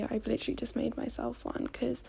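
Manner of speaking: talking between sips of tea; while sipping a drink. Real, not acted. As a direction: speak around a sip of tea. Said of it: "if you hear me sipping my tea".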